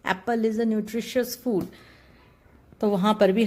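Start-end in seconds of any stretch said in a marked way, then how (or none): 0.1-1.6 slow, careful example sentences. Shown as a demonstration. Teacher reading nutritious examples to students, slowly. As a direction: read it slowly, word by word. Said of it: "तो हम इसे कहते हैं".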